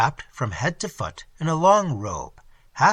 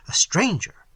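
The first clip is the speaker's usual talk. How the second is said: higher, startled repeat of stranger; surprised; 7 semitones higher than usual. A narrator's reading. Prince hearing of a late visitor, startled. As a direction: echo the word stranger in disbelief.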